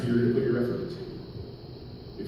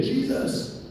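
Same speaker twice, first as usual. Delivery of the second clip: thin, pitched-up imitation of a far cry; calling out again; 13 semitones higher than usual. Blind men call to Jesus once more, high mock cry. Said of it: "they call out to him again".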